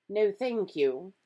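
frosty, measured character voice; cold. A narrator's reading. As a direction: decline coldly and deliberately. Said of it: "said Professor McGonagall coldly".

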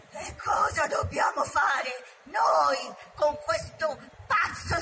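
tiger's roar. Acted. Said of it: "Shere Khan ruggì".

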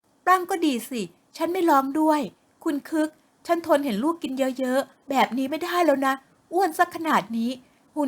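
sharp retort, then firm; fed-up wife. Acted. Wife complains to husband about daughter, fed-up voice.

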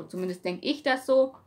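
normal talking voice

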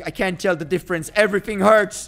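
loud hammed-up pain yelps; mock pain cries. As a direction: yelp like it really hurts. Character falls, mock pain.

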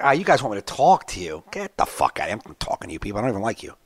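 muted scorn for the crowd; retold dismissiveness.

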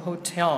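"hotel" stressed on the second syllable. Shown as a demonstration. Teacher models the word hotel for students, second-syllable stress. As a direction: put the stress on TEL in "hotel". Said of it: "trọng âm nó sẽ rơi âm thứ hai".

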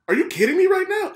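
incredulous shout at the Jehovah's Witnesses; retold outburst. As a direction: reenact yelling at the door-knockers. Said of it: "And I went off".

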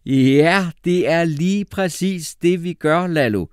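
delighted, high, slow praise; very glad. A narrator's reading. Teacher Jeppe happily praises Lalo's answer. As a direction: beam with relief. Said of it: "lød vildt glad".

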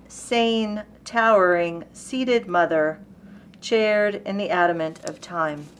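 spaced-out recitation, word by word; poetry reading. Acted. Reading Whitman's brief poem America to listeners, deliberate poetry reading. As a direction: set each word apart, slowing on phrase endings. Reads a second poem aloud.

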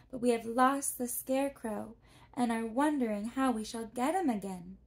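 put-on a polite girl introducing herself; young girl Dorothy. A narrator's reading.

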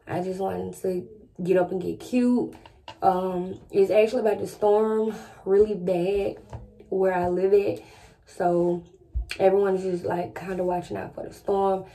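talking with retainers in, slightly lisped; lisping around a retainer; wearing a retainer. Real, not acted. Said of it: "I have my retainers in".

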